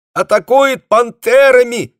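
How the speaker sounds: high, thin, slow squeak from far away; mosquito squeak. A narrator's reading. Company commander squeaks faintly down a cut phone wire. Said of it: "по-комариному пропищал голос".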